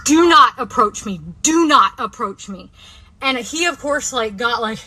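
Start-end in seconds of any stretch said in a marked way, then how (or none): 0.0-2.7 firm slow yelled warning; repeated yell. Retold or imitated. Woman yelling at a man in a parking lot, slow firm shout. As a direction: bark it twice, slow and firm. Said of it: "kept saying it over and over".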